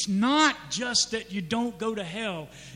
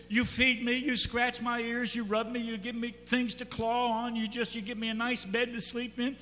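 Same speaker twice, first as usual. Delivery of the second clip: lightly voiced cat, a bit high; self-important cat; 4 semitones higher than usual. Cat lists what owner provides, lightly acted entitlement. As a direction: tick off favors like a pampered cat. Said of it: "The cat says".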